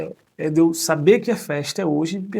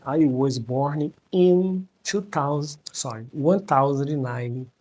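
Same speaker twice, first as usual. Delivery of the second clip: slow, halting English; much slower than usual. Shown as a demonstration. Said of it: "Desculpa, é difícil".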